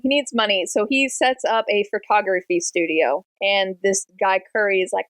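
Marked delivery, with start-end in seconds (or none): none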